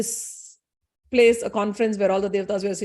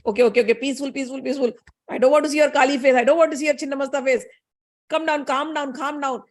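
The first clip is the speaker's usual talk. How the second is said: mock-flustered husband, pitched up in bursts; hurried placating; 3 semitones higher than usual. Husband begging his raging wife to calm down, hurried placating. Bhagwan placates an angry Kali.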